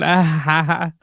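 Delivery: mimicked stuck "ah, ha, ha"; imitated alarm noise. Co-host mocks the stuck phone noise, imitating it. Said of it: "It's stuck on".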